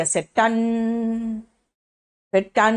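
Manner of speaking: slow mock church-bell टन, one toll at a time; imitated bell toll. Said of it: "पता है वहां घंटी कैसे बजती है?". (धीमी घंटी की नकल में टन)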